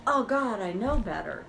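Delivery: a touch of exasperated self-scolding; exasperated groan. Shown as a demonstration. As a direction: groan at yourself, fed up. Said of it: "or it's even like this".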